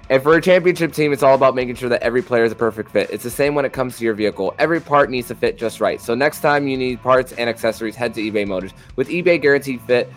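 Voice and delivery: upbeat scripted sponsor read; rolling, punchy host ad read; podcast ad read. Real, not acted. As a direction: sell it like a sports podcast sponsor spot.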